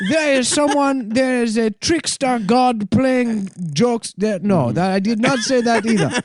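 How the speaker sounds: deadpan speech-synth denial; computer voice. Retold or imitated. Computer voice blaming trickster.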